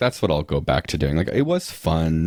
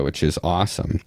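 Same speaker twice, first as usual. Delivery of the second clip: sarcastic. Real, not acted. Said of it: "I'm saying that really sarcastically".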